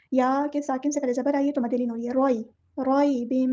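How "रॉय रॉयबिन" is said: रॉयबिन with a soft, gentle या; soft madd leen. Shown as a demonstration. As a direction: ease gently through रॉयबिन. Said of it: "नरमी से बोलना है". (नरमी से पढ़ना)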